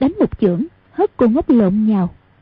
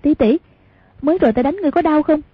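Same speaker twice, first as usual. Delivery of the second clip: higher, fast, light voice; smiling question; 5 semitones higher, much faster than usual. Acted. Hoàng Dung laughingly asking Cô ngốc if it hurt. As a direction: coax the simple girl cheerfully. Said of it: "cười nói".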